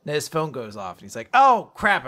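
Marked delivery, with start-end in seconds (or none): 1.3-2.1 high, loud mock alarm; acted sudden dismay. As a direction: blurt it as if just remembering.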